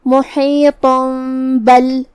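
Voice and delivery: محیط بل with the tanween turned into a nasal meem; iqlab. Shown as a demonstration. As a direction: hum an m before بل. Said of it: "میم میں بدل کے غنہ کے ساتھ".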